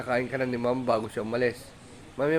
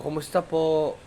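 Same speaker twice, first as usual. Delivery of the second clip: lightly pitched-up greeting on the pet's behalf; a hint of a playful pet voice; speaking for the dog; 4 semitones higher, slower than usual. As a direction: prompt the dog with a polite, raised greeting. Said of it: "Ah, sabi mo".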